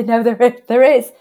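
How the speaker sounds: insistent retort. Retold or imitated. Coach quoting their reply to people who doubt silver bullets, insistent. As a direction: push back firmly, voice rising in volume.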